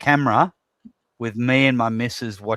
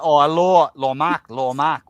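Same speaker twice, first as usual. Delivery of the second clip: Thai accent impression; 3 semitones higher, 4 dB louder than usual. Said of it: "She's like".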